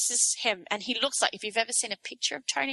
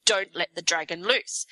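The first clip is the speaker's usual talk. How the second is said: mock the greedy goblin; 2 semitones higher than usual. Speaker mocking Tony Abbott's thinking, hammed-up goblin sneer. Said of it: "he thinks".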